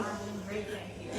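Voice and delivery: talking through a teeth grill; words shaped around a grill. Real, not acted. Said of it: "I'm rocking a grill".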